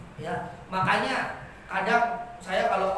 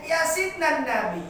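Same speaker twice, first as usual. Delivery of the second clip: Arab pronunciation; 6 semitones higher, 3 dB louder than usual. Retold or imitated. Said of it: "orang Arab ngomongnya".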